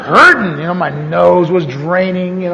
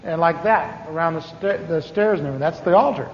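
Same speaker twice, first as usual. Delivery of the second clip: hushed church explanation; 3 semitones lower, 8 dB quieter than usual. Retold or imitated. Friend whispering explanation in church.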